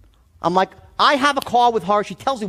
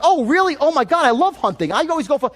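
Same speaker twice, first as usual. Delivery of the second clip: mock gushing salesman; 5 semitones higher than usual. Salesman fakes excitement about the client's hobby, mock gushing. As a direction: ham up a salesman who suddenly loves hunting.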